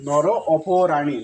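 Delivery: নর অপরাণী said very slowly; slow careful pronunciation. Shown as a demonstration. Teacher gives the final pronunciation of নর অপরাণী to students, slow. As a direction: draw out নর অপরাণী syllable by syllable. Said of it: "তাহলে উচ্চারণ দাঁড়াইলো".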